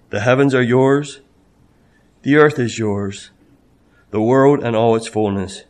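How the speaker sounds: grave pulpit reading of a psalm; scripture reading. Acted. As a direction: read the lament with weight. Reads psalm aloud.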